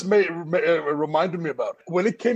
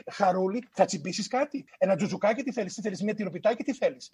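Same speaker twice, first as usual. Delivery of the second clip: lightly voiced fussing Greek mum; Greek mother; 3 semitones higher, faster than usual. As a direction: imitate a mum pressing food on a child. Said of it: "the mother would come out and go".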